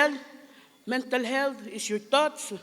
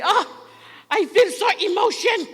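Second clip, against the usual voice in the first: higher, hammed-up gushing; wrong usage demo; 9 semitones higher, 6 dB louder than usual. Shown as a demonstration. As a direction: act out the wrong phrase, overdone. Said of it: "But you don't say".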